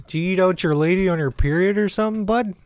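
teasing Canadian buddy; put-on Canadian accent. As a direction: needle him in a Canadian accent. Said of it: "very Canadian accent?".

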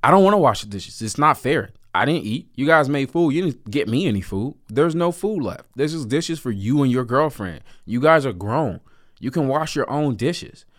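put-on teen son protesting to his father, whiny. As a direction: argue back like an aggrieved teenager. Teen self arguing back to dad.

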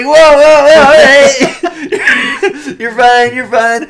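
high, loud mock soothing; calm down a panicking customer, hammed up; calming waiter. Waiter retold calming the panicked diner, high and loud. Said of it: "And the guy's like".

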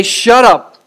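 rebuke. Shown as a demonstration. Demonstrated rebuke in faith.

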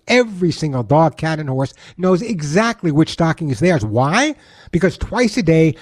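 earnest charity appeal; heartfelt radio ad read; sincere ad read. Acted. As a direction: make the listeners care about the rescued animals. Reads a charity ad.

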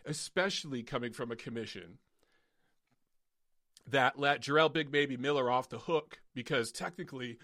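hoarse, worn-out voice; hoarse from ranting; losing voice. Real, not acted. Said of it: "I'm losing my voice already".

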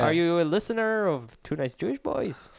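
whispering. Retold or imitated. Retorting to scammer, mock.

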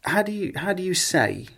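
lightly voiced bandmate asking; a hint of a teasing bandmate; quoting bandmates. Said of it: "they picked me up on it".

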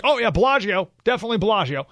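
mildly acted eager agreement; confident first answer. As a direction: chime in as if totally sure. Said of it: "that person's like".

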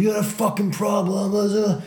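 high, fast confrontational yell; mock angry police shouting; imitated aggressive cop. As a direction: challenge him, trailing into gibberish. Imitating aggressive cop throwing him.

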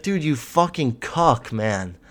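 slow, lightly voiced scornful jab; a hint of an exasperated LeBron, drawn out; imitating LeBron. LeBron scolding his teammate after the blunder, lightly imitated. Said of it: "And he's like".

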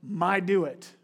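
lightly voiced insistent toddler; a hint of a stubborn little kid; mild mock toddler demand. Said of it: "the only thing they could say was".

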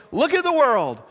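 sarcastic starry-eyed cheer; gushing mock wonder; naive optimism. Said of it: "looking at our city and our country".

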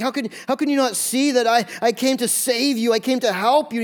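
ticked off. Acted. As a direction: plead with them in acted frustration. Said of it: "He was ticked".

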